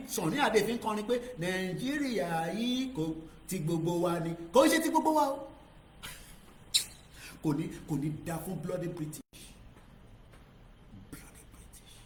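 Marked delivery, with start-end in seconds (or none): 4.5-5.5 high, loud, insisting; impassioned shout. Real, not acted. Passionate rebuttal. 11.1-12.0 whispered curse. Real, not acted. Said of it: "voiceless muttered curse".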